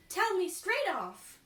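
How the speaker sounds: high, loud and pushy; demanding wife, loud and high; eager demand. Acted. Cloth merchant's wife demands her fortune, loud and high.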